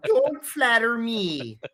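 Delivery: laughing through a slow, loud mock scolding. Octopus mom laughs off Victor's heart drawing, mock scolding. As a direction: chuckle as you wave off the flattery.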